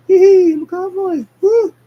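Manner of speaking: high, loud giddy cowboy whoop. Acted. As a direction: yell it like a kid on a ride. Sonic whooping on fast bull.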